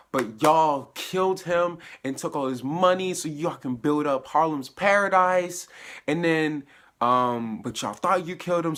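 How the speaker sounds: vengeful villain. Retold or imitated. Bushmaster recounts revenge, threatening.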